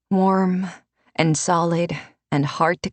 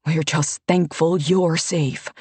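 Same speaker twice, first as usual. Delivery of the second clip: slow, earnest gratitude; mean every word; fervent; slower than usual. Acted. Tomo tells Alessa he is thankful, slow and fervent. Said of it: "Tomo said fervently".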